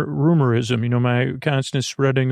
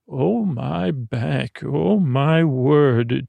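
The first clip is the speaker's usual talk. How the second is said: contented groan; much slower than usual. Acted. Back rub feels good.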